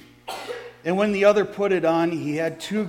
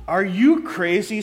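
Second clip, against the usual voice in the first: sneering; 4 dB louder than usual. Acted. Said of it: "sneered the other".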